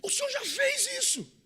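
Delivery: very high, strained mock protest; high-pitched imploring complaint; disciples' plea. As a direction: whine it up high at the Lord. Disciples' plea to Jesus acted.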